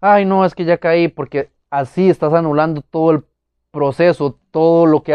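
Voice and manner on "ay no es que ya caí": higher, mock-whiny "Ay, no, es que ya caí"; mock the defeated whine of someone who slipped; a hint of a self-pitying moan; whiny excuse. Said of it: "nunca se excusen".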